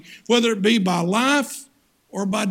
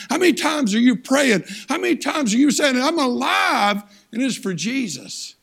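rising, insistent preacher's challenge with a near shout; fiery preaching; 3 semitones higher than usual. Acted. Preacher pressing the congregation on how they live, fiery preaching. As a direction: drive the questions home to the pews.

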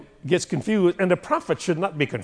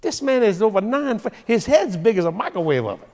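worried king Saul; 5 semitones higher than usual. Acted. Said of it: "Saul said".

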